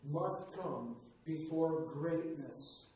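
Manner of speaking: each word laid down slowly; a slow, weighted motto; slow emphasis. Retold or imitated. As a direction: let the motto sink in. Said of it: "my mother's words".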